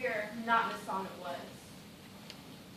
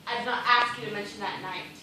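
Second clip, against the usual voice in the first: sharp retort; 6 dB louder than usual. Acted. Woman answers sharply.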